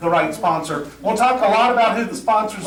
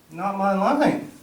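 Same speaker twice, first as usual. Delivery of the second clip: slow, stubborn refusal in another voice; Pete stubborn; slower than usual. Retold or imitated. A castmate insisting it isn't his cue, slow and stubborn. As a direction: dig in and refuse slowly.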